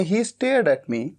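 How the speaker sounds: very slow, word by word English; dictating each word slowly; slow dictation. Shown as a demonstration. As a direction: spell it out slowly for the class. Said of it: "past indefinite tense में".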